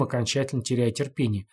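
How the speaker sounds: ordinary delivery, nothing marked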